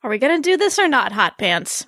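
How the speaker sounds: a hint of impatient, amused sarcasm; impatient sarcastic Tamsin. Valkyrie teasing the doctor on the bed, sarcastic. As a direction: tease her, bored and smug. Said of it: "Tamsin's voice was impatient yet edged".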